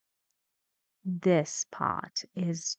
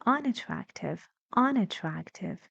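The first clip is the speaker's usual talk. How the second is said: "unattractive" with "trac" stronger than a still-stressed "un"; primary and secondary stress. Shown as a demonstration. Teacher asks how we say it, "unattractive" with strongest stress on "trac". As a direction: stress both "un" and "trac" in "unattractive", more energy on "trac".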